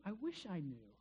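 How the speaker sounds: quiet, longing echo; wistful quiet repeat. Real, not acted. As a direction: let it fall away to yourself.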